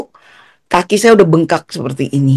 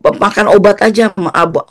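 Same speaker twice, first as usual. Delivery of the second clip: doctor shooing someone out, a bit higher; imitated brisk dismissal; 3 semitones higher than usual. Doctor sending the patient home with painkillers, imitated dismissal. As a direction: wave the patient away, retold. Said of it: "Dia usir saya".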